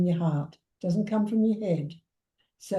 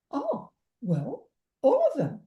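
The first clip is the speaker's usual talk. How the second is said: higher, dawning admission; sheepish client; 7 semitones higher than usual. Retold or imitated. Client Glad admitting she overcame every problem, higher pitched. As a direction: let it slip out in her higher voice. Client voiced in a retold talk.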